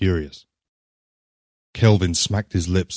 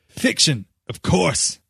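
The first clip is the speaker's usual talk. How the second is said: great finality; 10 semitones higher, slower than usual. A narrator's reading. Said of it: "with great finality".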